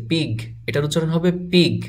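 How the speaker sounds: পিগ ending in a voiced g; teacher modelling পিগ with final g. Shown as a demonstration. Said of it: "বা জি এসেছে".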